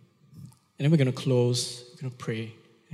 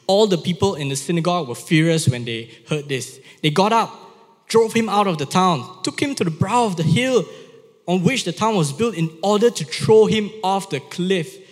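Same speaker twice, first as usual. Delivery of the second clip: raised, energetic Bible reading; dramatic scripture reading; 5 semitones higher than usual. A narrator's reading. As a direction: read the passage out with urgency. Reads Bible passage aloud with drama.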